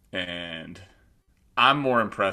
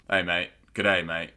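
lightly put-on Australian greeting; mock Australian accent; slower than usual. Shown as a demonstration. Showing off his Australian after messing it up, mock Australian accent. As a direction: have another go at a rough Australian accent. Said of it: "That's my, my Australian".

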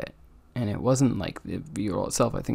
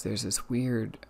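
slow, drowsy, mid-yawn; 8 dB quieter, slower than usual. Real, not acted. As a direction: speak through a yawn. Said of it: "I don't know why I'm yawning right now".

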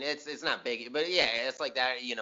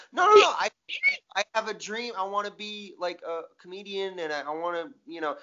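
whiny dreamer; 7 semitones higher than usual. Retold or imitated. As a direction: beg like a hurt kid. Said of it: "And you're like".

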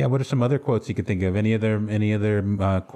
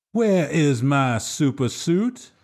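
where is my super suit, stretched high; mock Frozone; 6 semitones higher, much slower than usual. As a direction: yell for the suit like a frantic husband. Quiz quote as Frozone.

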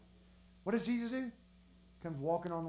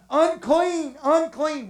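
raised mock warning call; crying out; 4 semitones higher, slower than usual. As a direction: call it out as a leper warning passers-by. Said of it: "they're supposed to cry out".

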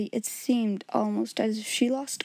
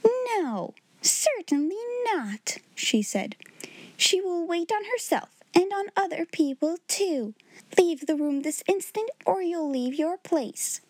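angry refusal; 7 semitones higher than usual. A narrator's reading. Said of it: "She actually stamped her foot".

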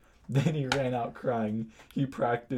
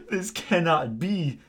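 slow, raised, measured pronouncement; crisp voice; 4 semitones higher, 4 dB louder, slower than usual. Acted. Snape reacts to Hagrid's revelation, crisp voice. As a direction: pronounce each word slowly and crisply. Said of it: "Snape said in a crisp voice".

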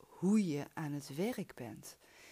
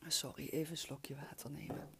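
whispered aside; 6 dB quieter than usual. Real, not acted. Aside before drinking water.

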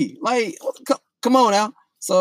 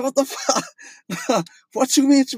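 laughing disbelief; 8 semitones higher, much slower than usual. Retold or imitated. Retelling his reaction, laughing.

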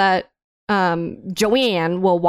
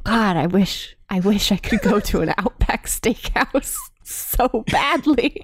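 put-on British accent; 3 semitones higher than usual. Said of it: "I'm gonna stop the accent".

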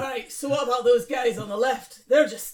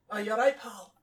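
quick stock-phrase Scots; Scottish accent. Shown as a demonstration. Showing the classic warm-up phrase, Scottish accent. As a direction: slip briefly into Scottish. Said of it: "What did I say for Scottish?".

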